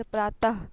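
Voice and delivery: प्रातः ending in an audible "ha" sound; visarga as h. Shown as a demonstration. Teacher demonstrating visarga to students, प्रातः with h ending. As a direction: breathe out a final h on प्रातः. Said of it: "हा के sound से पढ़ते हैं".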